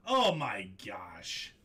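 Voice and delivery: slow hushed whisper. Real, not acted. Breaker reacting in awe to a pull, slow whisper. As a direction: breathe it out in disbelief.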